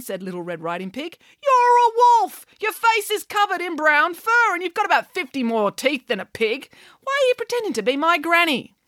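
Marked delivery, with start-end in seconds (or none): 1.4-8.7 piglet exclaiming. Acted. Pig exclaims discovery.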